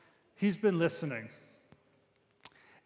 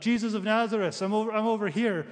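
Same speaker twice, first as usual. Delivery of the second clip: higher, hurried mock call for attention; mock yell; 5 semitones higher, 4 dB louder, faster than usual. Imagined blind man hailing Jesus from the crowd, mock yell. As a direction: lightly act out calling to someone passing. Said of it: "he doesn't yell out".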